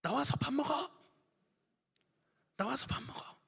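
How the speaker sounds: high calling shout from the kitchen; mom calling out. Retold or imitated. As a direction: yell it down the hall like a mom calling the kids to eat. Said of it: "엄마가 이렇게 소리를 지릅니다". (방에 있는 아이를 부르는 엄마, 높게 외치듯)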